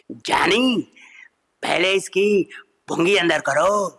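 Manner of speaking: slow, haughty Raaj Kumar style drawl; filmi jaani impression. Veteran star lectures the comedian, slow haughty drawl. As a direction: drawl it like an old film hero.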